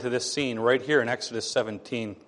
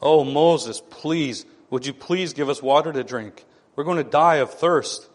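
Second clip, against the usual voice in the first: mock begging; 3 dB louder than usual. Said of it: "begged Moses".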